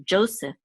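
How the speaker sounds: Joseph as "JO-seph"; stress on first syllable. Shown as a demonstration. Teacher giving the English name, Joseph stressed at the front. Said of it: "the accent is on the first syllable".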